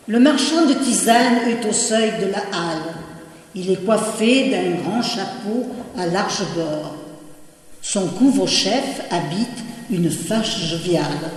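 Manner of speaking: title announced, then verse read out in measured phrases; declaimed poetry with pauses between lines; poem recitation. Acted. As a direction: recite the portrait line by line. Reads a poem after its title.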